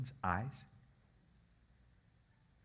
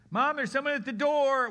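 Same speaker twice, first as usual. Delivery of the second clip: put-on high excited kid calling out, louder; child's voice; 8 dB louder than usual. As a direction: call to mom like an eager little kid. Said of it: "one of his kids said".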